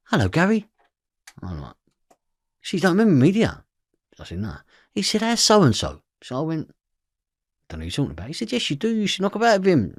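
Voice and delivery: mock detective. Detective voiced, high pitch.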